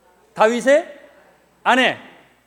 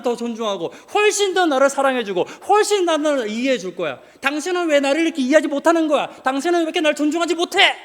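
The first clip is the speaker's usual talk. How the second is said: higher, exasperated husband scolding his wife; angry outburst; 5 semitones higher than usual. Retold or imitated. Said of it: "라고 화를 내는 거예요". (높아진 목소리로 아내를 다그치며 화내는 남편)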